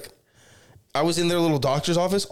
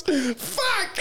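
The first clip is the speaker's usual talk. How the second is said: imitating mom's yelp; 10 semitones higher than usual. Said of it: "she goes".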